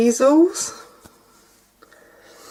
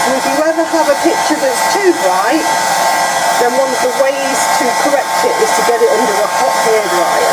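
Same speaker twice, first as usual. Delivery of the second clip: raised voice over a noisy hairdryer; over hair dryer. Real, not acted. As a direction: speak up over the blowing dryer. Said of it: "Live means you get to hear all of this".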